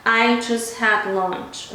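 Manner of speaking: "I just had lunch" read slowly, each word spaced out; slow example reading. Shown as a demonstration. Teacher reading the example sentence slowly to her students, deliberate. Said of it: "teacher reads example sentence slowly".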